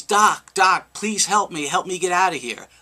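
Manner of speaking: retold yell. Trapped man calls up to a passing doctor, mild retold yell. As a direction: call up for help, only half yelling. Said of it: "And he yells".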